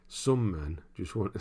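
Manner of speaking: slow, shaky attempt at an actor impression; Michael Caine. Streamer abandoning a slow film-quote impression. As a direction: draw it out in a badly faked London voice. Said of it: "I can't do it at all".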